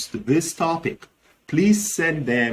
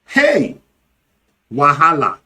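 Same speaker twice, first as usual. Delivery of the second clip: alarm at looming trouble; 5 dB louder than usual. Shown as a demonstration. Reacting to a problem looming, emphatic alarm. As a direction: exclaim as if you smell trouble coming. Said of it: "see or smell problem looming, the emphatic expression".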